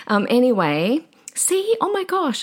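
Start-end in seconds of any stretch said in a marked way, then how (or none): 1.3-2.4 teary laugh-cry. Real, not acted. Telling listeners about her dog, a high teary laugh-cry. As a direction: pitch jumps high, half laughing through tears. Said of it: "I'm gonna cry".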